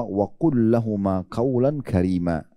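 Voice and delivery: slow Quran recitation. Acted.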